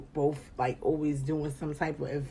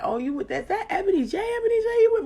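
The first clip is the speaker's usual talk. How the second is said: imitating fans, laughing; 4 dB louder, faster than usual. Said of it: "everybody like".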